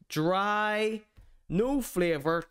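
ordinary talk

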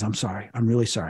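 soft, subdued apology; retold tearful apology. Demon apologizing before it leaves, retold tearful murmur. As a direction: apologize quietly, imitating someone in tears. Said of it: "And he's crying".

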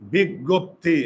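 "বিজ্ঞপ্তি" said syllable by syllable, big-gop-ti; dictated pronunciation. Shown as a demonstration. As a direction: sound out "বিজ্ঞপ্তি" slowly for students to write. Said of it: "আর একটা উচ্চারণ লিখো".

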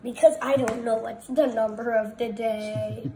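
real, insistent loud voice; loud explaining. Real, not acted. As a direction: belt out each word at full volume. Child explains emphatically to laughing adult.

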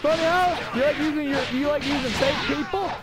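screaming taunt. Acted. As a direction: scream it at him, taunting a rival. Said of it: "Stop screaming".

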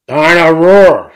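long, loud, high shout; drawn-out roaring toy name; George's toddler roar. A narrator's reading. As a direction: bellow it slowly like a delighted small child. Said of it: "says George".

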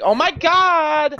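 lightly exaggerated, drawn-out female character voice; slow mock exclamation as a stock girl character. Shown as a demonstration. Demonstrating their limited character voices, mildly hammed-up female voice. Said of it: "every character would end up being like".

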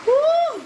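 loud, very high joyful whoop; excited whoop. Real, not acted. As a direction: let out a happy high woo. Delighted whoop over food.

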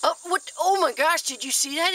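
sudden high startled exclaim; surprised. Real, not acted. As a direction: caught off guard by the bugs. Sudden headbutt between caterpillars.

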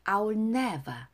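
lyrics recited in lilting, separated phrases; feeling, dance-like. Shown as a demonstration. Teacher modelling song lyrics for students, feeling and dance-like lilt. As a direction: recite it as if dancing, pausing after each phrase. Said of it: "감정 넣어서 춤을 추듯이 발음해 볼게요".

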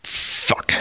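breathy whispered fuck under the breath; whispered curse. Retold or imitated. Caught by the kid, whispering a curse to himself. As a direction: let it out as a defeated whisper. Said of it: "And I was just like".

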